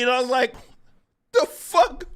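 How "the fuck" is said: high-pitched baffled outburst; shocked disbelief. Retold or imitated. Streamer retelling how blindsided he was, shocked disbelief. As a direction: blurt it as if blindsided.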